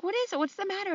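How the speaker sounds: high, worried mother's voice; a hint of a fretting mother; worried mom. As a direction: play the alarmed mom asking what's wrong.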